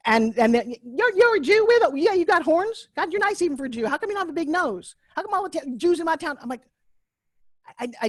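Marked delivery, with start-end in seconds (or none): 0.8-6.4 high-pitched, incredulous Oklahoma voice; mock Oklahoma accent. Oklahomans quizzing a Jewish girl, high mock Oklahoma accent. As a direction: imitate a nosy Oklahoma local, pitched way up. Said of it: "of Oklahoma, they're like".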